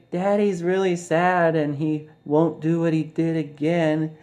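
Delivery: mock calm daddy. Father soothing his little daughter, high mock coo. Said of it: "he's all trying to say".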